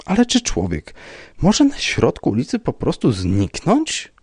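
high, slowing, incredulous protest; indignant. A narrator's reading. Rybka protesting that people cannot vanish, indignant. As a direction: object with mild indignation. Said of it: "oburzył się pan Rybka".

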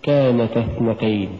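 كانتا run into اثنتين with no push on ن; unstressed تا in كانتا; dropped-alif reading. Shown as a demonstration. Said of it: "بدون ألف".

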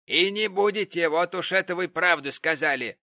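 loud sarcastic jab. Acted. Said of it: "заметила миссис Гэмп".

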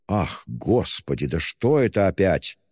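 ordinary delivery

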